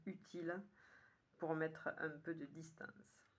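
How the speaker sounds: measured poem reading with pauses between lines; poem recitation. Acted. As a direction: recite it line by line, clearly phrased. Rereads the poem aloud.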